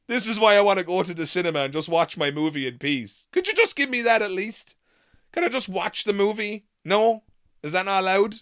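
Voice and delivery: loud, pleading, worn-out complaining; exasperated rant. Real, not acted. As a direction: beg the world to just let you watch. Ranting about wanting peace at cinema.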